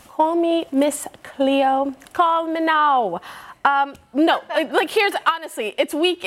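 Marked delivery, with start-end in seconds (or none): 0.1-3.2 slow, playful put-on West Indian accent, drawn out; a light, joking West Indian fortune-teller accent; Miss Cleo West Indian accent. Hosts teasing her prediction, light slow West Indian accent. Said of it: "I need you to do that West Indian accent again".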